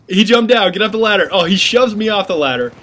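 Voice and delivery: loud, high, urgent shouting at a teammate; excited yelling. Real, not acted. Gamer yelling at teammate during ladder fight, loud and excited. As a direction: yell it mid-firefight, heart racing. Frantic live firefight on ladder.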